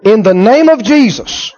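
slow, careful mock command; deliberately practicing an exorcism line; rehearsing the formula. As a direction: recite it piece by piece. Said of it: "Let's go over it again".

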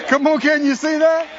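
loud, ringing preacher's cry; full-force revival call; preaching shout. Real, not acted. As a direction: shout it to the congregation.

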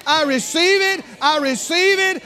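joyful receiving. Retold or imitated. Preacher voicing a believer joyfully claiming God's gift, building to a shout. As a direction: shout your thanks like a child tearing open a gift. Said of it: "you rip the paper off and you say".

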